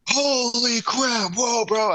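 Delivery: put-on stunned old biker gasping in disbelief; amazed biker. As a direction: imitate the old biker having his mind blown. Biker sees the plastic trick.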